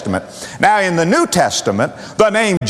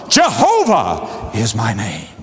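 a lightly voiced God, lower and solemn; 7 semitones lower than usual. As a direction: declare the name as God speaking to Moses. God declares his name to Moses.

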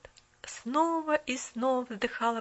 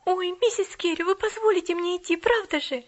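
exclaimed; 7 semitones higher, 6 dB louder than usual. Acted. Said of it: "воскликнула".

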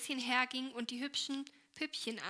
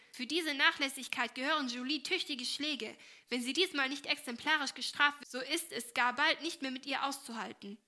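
indignant; 3 semitones higher, 4 dB louder than usual. Acted. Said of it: "rief sie entrüstet".

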